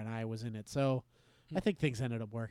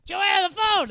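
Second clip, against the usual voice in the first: higher, louder call to the phone; mom yelling; 9 dB louder than usual. Retold or imitated. Mom calling daughter to the phone, yelling. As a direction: holler it through the house. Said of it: "yelling across the house".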